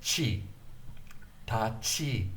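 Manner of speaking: Chi with a puff of breath; aspirated chi. Shown as a demonstration. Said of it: "Aspiration is the sending out of breath".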